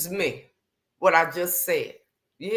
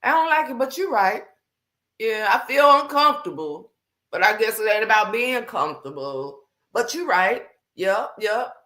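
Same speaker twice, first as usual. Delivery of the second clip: lightly voiced sulky yes, Lord; grudging agreement; 3 semitones higher than usual. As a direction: admit he's right though you don't like it. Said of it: "you couldn't do nothing but be like".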